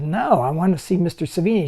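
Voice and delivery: acted-out firm, annoyed demand; retold anger. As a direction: re-enact angrily standing your ground. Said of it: "I got really angry".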